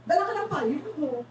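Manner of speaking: ordinary delivery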